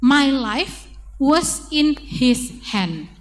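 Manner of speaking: slow, careful lyric read; teacher reading a song line to children; reading lyrics slowly. Shown as a demonstration.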